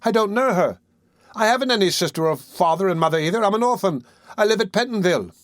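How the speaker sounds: put-on high, frightened boy pleading; alarmed protest. A narrator's reading. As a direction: Oliver tells the crowd he is an orphan, high and alarmed. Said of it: "greatly alarmed".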